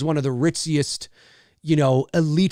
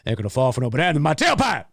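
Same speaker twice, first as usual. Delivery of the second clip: fast, put-on tough-guy version; stronger; faster than usual. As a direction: punch it out with swagger. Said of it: "You gotta say it stronger than that".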